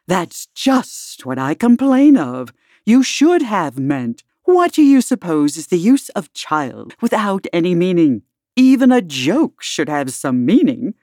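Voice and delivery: a touch of impatience, brisk and scolding; mildly impatient queen cutting in. Acted. Red Queen cutting Alice off, mildly impatient. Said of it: "interrupted her impatiently".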